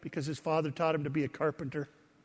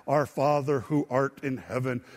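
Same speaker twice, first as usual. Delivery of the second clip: formal King James recitation; 4 semitones lower than usual. Shown as a demonstration. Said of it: "But it's so formal".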